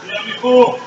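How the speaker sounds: very loud and high, slow hammering words; preaching shout. Real, not acted. Sponsor at the AA podium shouting down the crybabies, full-force roar. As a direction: roar it down at the room like a furious sponsor. AA speaker confronts the crowd.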